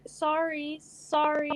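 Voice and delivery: mimicked hesitant little sorries; unsure apology. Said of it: "just so unsure about it".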